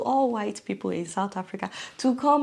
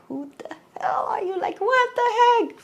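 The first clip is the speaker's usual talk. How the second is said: imitating outrage; 12 semitones higher than usual. Voicing upset South Africans.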